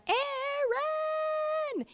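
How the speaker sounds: high, far-carrying call of a name; Hanji calling out. Acted. Hanji calling for Eren as she runs in, high call. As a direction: yell the name across the battlefield. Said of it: "and she's like".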